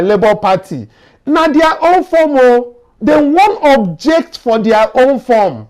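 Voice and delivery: rising indignation, pitch climbing high; incredulous, building outrage at the absurdity; indignant outburst. Real, not acted. Outrage that INEC objects to own forms.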